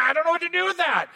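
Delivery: quick, high, rattled voice; flustered host. Retold or imitated. Host stuck with a strange guest, blurting it fast and high. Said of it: "and you're gonna be like".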